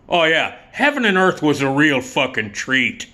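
toned-down sarcastic replay of buddy's jab; Joe Donatello. Retold or imitated. Comic repeats what buddy said to director, mild sarcastic impression. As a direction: needle lightly with mock praise. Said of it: "that's what Joe said to Oliver Stone".

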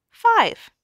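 five jumps high and loud at the end of the count; big final count. A narrator's reading. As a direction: land the last number with a big lift. Counting up to the big fifth job.

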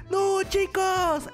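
slow, stunned "no"; shocked. Real, not acted. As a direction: drag out the shock. Shocked discovery.

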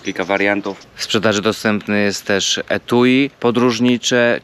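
even, measured product pitch; sponsor ad read. Real, not acted. Vlogger recommending a travel blender to viewers, ad read.

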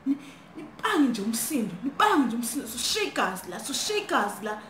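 mild mock whimpering; imitated crying. Roommates starting to cry as intruders shout, mock crying. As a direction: act out a tearful complaint lightly. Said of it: "we start crying".

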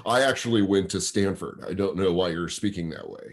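low, measured scientist putting a heckler straight; mock scientist voice. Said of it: "He might be like".

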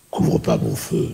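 very deep, slow, solemn sign-off; centurion voice. Shown as a demonstration. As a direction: boom it out slowly, deep as a Roman. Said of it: "mettre de l'écho sur ma voix".

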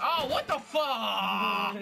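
slow, stretched exclamation; outraged gamer yell; drawn-out shocked shout. Real, not acted. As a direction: shout it in disbelief, dragging it out. Shocked by event in game.

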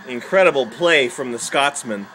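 mock match commentary; put-on commentator delivery; sports commentator. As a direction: call the match like a pundit. Imitating sports commentary at the screen.

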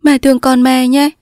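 high, imploring daughter; coaxing, high-pitched plea; pleading. Acted. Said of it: "nàng van lơn".

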